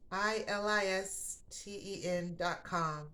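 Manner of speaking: each letter slow and clear; slow spelling. Real, not acted. Host spells the sponsor website for listeners, slow and deliberate. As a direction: spell it out slowly.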